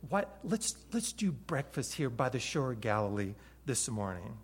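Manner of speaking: Jesus casually inviting the disciples to breakfast by the shore; friendly invitation. Acted. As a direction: invite your friends over, softly. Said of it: "a personal invitation from Jesus".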